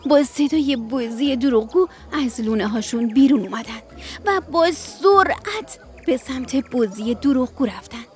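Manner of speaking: put-on gentle bedtime story reading for kids; children's radio storyteller; storytelling narration. A narrator's reading. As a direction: read it like a bedtime tale.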